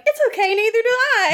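very high mock girl's voice; Sugar. Sugar reassuring Daphne about swimwear, very high put-on voice. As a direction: pitch it right up, airy reassurance. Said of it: "And Sugar's like".

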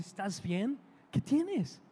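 pregunta suave y atenta; preocupación imitada. Retold or imitated. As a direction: consuela en voz baja, subiendo al final. Hombre atiende a mujer que llora. (preocupado, con voz suave)

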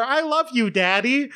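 imitating a child saying it lovingly; sweet little daughter. Quoting the daughter's voice line.

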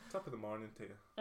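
half-hearted mock Irish; bad Irish accent. Friend plays along with the accent joke, bad Irish accent. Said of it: "Neither of us are good at Irish accents".

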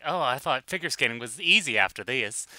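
a light Southern twang on the quote; mild Southern twang. Retold or imitated. Host quoting Johnny Weir complaining, in a light Southern accent. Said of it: "I gave him a Southern twang".

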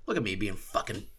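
loud cocky brag; loud self-congratulating shout; mock boast. Real, not acted. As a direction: crow about being brilliant. Boasting loudly about own theory.

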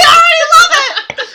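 high, loud delighted squeal; excited shout. Real, not acted. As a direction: squeal with joy.

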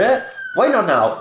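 lightly acted startled bluntness; surprised blunt question. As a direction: snap back with a surprised why not. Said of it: "expecting you to say".

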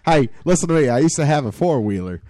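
put-on Texas country accent. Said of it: "should I talk normally like a human".

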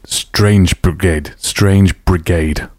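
Strange Brigade dicho despacio, sílaba a sílaba, con cuidado; careful Strange Brigade. Shown as a demonstration. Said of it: "really practicing hard to say".

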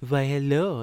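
put-on thick French accent. Woman at the beauty parlor greets the boys, French accent. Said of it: "speaking in a really thick French accent".

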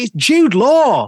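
slow, high, awed reveal; whispered-loud awe at spotting a film star; starstruck gasp. Retold or imitated. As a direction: breathe the name out like you can't believe it. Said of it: "she was like".

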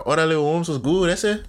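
lightly put-on Chicano accent; Chicano slang greeting. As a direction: greet like a Mexican street dude, Chicano cadence. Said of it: "I need them to be like".

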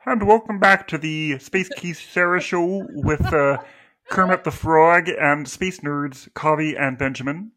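light Kermit the Frog voice; a hint of Kermit hosting. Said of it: "doing it in Kermit the Frog voice".

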